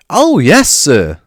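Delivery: earnestly, the squeaky house elf; high earnest elf voice. A narrator's reading. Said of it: "said Dobby earnestly".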